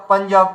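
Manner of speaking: পাঞ্জাব said "pan-jab", a nasal before the j. Shown as a demonstration. Teacher pronouncing পাঞ্জাব for students. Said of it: "আচ্ছা, পাঞ্জাব".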